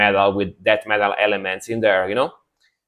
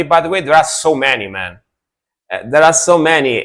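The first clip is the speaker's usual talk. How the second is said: higher-pitched, genuinely surprised emphasis; real surprise, pitched up on a repeated point; 4 semitones higher than usual. Real, not acted. Streamer marvelling at how many Italian metal bands exist, surprised. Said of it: "in a very surprised way".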